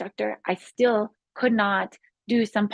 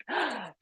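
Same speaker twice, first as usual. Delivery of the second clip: amazed gasp; 2 semitones higher, 11 dB quieter than usual. Retold or imitated. Acts out amazement at recovery.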